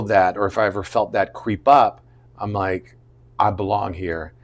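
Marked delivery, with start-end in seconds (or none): 3.4-4.3 quiet self-assurance. Retold or imitated. Self-talk against creeping doubt.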